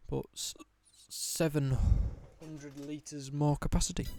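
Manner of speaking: words broken by hiccups. Real, not acted. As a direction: hiccup cutting the word. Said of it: "you'll have to excuse the hiccups".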